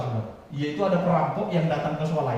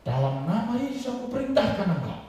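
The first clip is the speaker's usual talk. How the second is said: firm command; 5 semitones higher than usual. Retold or imitated. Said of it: "Dia bilang gini".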